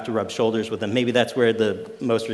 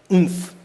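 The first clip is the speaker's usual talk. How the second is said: short, higher, louder oomph; sudden emphatic burst; punchy oomph; 8 semitones higher, 5 dB louder than usual. Shown as a demonstration. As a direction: punch out a visceral grunt of a word. Gropes for word, makes punchy noise.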